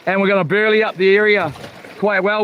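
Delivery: ordinary delivery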